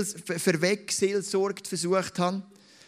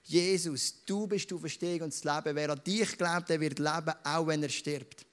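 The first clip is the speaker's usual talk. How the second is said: modelled prayer. Shown as a demonstration. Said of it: "dass du über dein Leben das Aufspiel aussprichst".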